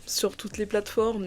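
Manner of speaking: ordinary delivery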